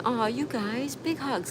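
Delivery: high, drawn-out sympathetic aww; sympathetic cooing. Real, not acted. Comforting chatters who feel bad.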